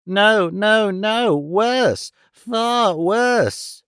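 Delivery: put-on high, wailing old man in despair; frantic old miser. A narrator's reading. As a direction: pitch it up and wail the loss. Arthur frantic in story.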